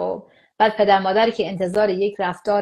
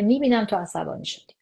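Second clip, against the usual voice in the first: calm acknowledging. Shown as a demonstration. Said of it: "کلید اینه که ما به رسمیت بشناسیم".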